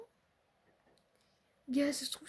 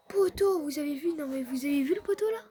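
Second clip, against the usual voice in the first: excited shout; 7 dB louder than usual. Real, not acted. Gamer shouting to viewers about her post, loud and stunned. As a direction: yell at the post you just hit.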